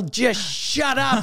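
mock yell, half laughing. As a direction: yell it while cracking up. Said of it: "And I yell".

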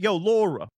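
brief New York "Yo, Laura"; New York accent. Shown as a demonstration. Showing how a New Yorker says Laura, New York accent. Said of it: "someone from New York would say it".

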